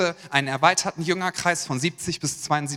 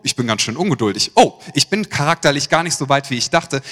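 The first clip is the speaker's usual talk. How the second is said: mock dismayed realization; 5 dB louder than usual.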